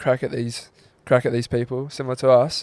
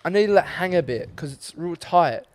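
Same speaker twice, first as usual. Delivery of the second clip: mock mum excuse; 5 semitones higher than usual. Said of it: "She's like".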